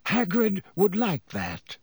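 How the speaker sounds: slow, amused and gentle; a private joke with the children; smiling. A narrator's reading. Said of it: "smiling at Harry and Hermione".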